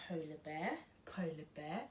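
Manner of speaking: soft whispered title; hushed storytime whisper. Pretend. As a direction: whisper it like a secret.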